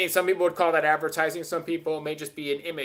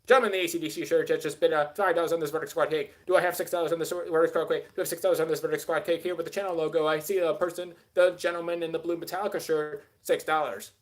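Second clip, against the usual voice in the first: lightly done auctioneer calling bids; a hint of an auctioneer taking bids. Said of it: "with my auctioneer voice".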